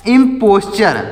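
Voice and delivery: "इम्पोस्चर" said carefully with ch in the last syllable; prononciation modèle. Shown as a demonstration. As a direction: model "इम्पोस्चर" ending in char. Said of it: "इसको पढ़ा जाता है".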